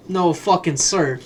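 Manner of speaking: slow, emphatic refusal; firm mock refusal. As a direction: draw out a mock-stern no. Mock refusal of olives on sub.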